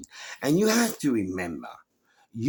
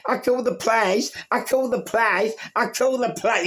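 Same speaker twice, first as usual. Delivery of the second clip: mock caller; 12 semitones higher than usual. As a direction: parrot her threat in a squeaky mocking voice. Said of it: "You know the one".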